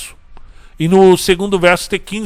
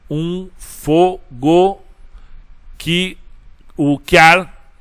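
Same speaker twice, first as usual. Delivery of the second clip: slow syllable scansion; 2 semitones higher, much slower than usual. Shown as a demonstration. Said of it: "teacher scans the verse syllables".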